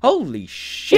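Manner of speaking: high, thrilled outburst; excited. Retold or imitated. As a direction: gush like a kid seeing drones. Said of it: "I'd be like".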